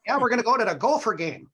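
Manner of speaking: put-on high, loud, quick Minnesota accent; hammed-up Minnesotan with long O's. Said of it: "we struggle out here with the O's".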